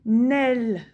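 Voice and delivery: "Nel" with long, held sounds; "Nel" as one drawn-out syllable; syllable sounded out. Shown as a demonstration. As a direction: stretch "Nel" out as a reading model. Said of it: "Lis-moi cette première syllabe".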